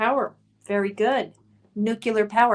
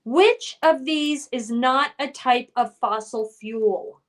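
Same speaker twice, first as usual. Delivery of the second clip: slow reading. Shown as a demonstration. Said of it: "reads question slowly".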